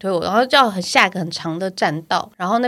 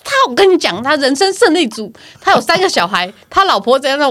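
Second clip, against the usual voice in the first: gossiping therapist; 7 semitones higher, 5 dB louder than usual. Retold or imitated. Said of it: "复健老师跟我讲的啊".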